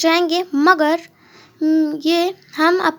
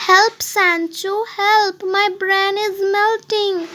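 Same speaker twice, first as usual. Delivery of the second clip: higher, slow mock panic; cry for help; 5 semitones higher, much slower than usual. Knight crying to Sancho for help, higher and panicky. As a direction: plead like your head is melting.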